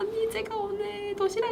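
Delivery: mock very high, teary, whimpering tone. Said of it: "말투가 되게 울먹이는 말투다".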